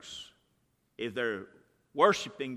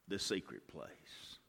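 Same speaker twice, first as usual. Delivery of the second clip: hushed; 5 semitones lower, 11 dB quieter, slower than usual. Acted. Preacher hushes to a soft close.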